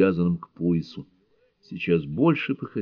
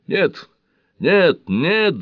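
much higher, louder roaring refusal; thundering no; 11 semitones higher, 5 dB louder, much slower than usual. A narrator's reading. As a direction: thunder it out, each one harder. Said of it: "загрохотал Скотт". (громовой крик, намного выше и громче)

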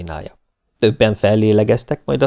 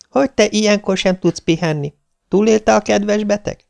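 put-on higher, friendly girl's voice; a bright young woman calling a friend, higher; young woman on the phone; 12 semitones higher than usual. Viktória calls Nándi at dinner, friendly higher voice.

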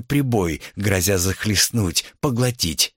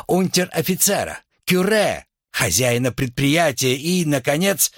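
higher-pitched orator's declaration; impassioned political speech; 4 semitones higher than usual. A narrator's reading. Student revolutionary denouncing the bourgeois order to a meeting, declamatory. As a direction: proclaim it like a student agitator.

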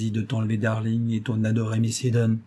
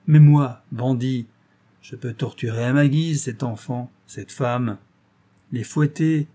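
a lightly voiced Zigomar, smug and menacing; gloating bandit; 3 semitones higher, 4 dB louder than usual. The captive bandit taunting the detective, smug and menacing. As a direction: savour every threat, cold and cocky.

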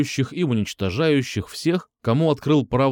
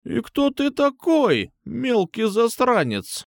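suspicious; 11 semitones higher, slower than usual. A narrator's reading. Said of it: "подозрительно спросила бабушка-киллер".

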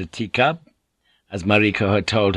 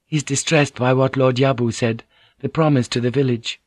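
Mariko's voice; 4 semitones higher than usual. Acted. Mariko greets Blackthorn, higher courteous lady's voice.

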